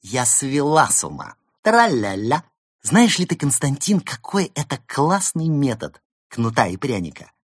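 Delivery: high, loud giddy glee. Acted. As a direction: bubble over with glee. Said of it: "Берта хихикнула".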